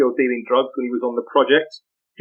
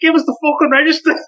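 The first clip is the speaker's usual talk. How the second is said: retold aggressive demand, pitched much higher and a bit louder; a light imitation of kids snarling at the teacher; mock threatening shout; mock gang demand; 11 semitones higher, 3 dB louder than usual.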